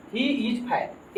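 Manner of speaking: slow deliberate dictation; very slow reading. Shown as a demonstration. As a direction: drag out each word of the example. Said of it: "बताएं यहाँ क्या use होगा". (बहुत धीरे उदाहरण पढ़ना)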